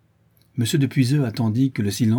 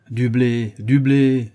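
raised, louder repetition of the demand; exasperated echo; 3 semitones higher, 6 dB louder, much slower than usual. A narrator's reading. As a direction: throw their words back at them. Il s'emporte contre la foule. (reprise exaspérée)

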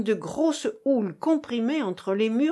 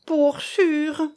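agreeing; 6 semitones higher, 4 dB louder than usual. A narrator's reading. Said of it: "acquiesça Madame Patard".

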